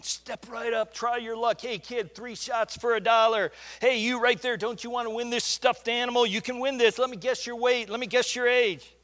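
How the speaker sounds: high, loud carnival barker call. Retold or imitated. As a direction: hawk it like a midway barker. Carnival barker voices at the fair.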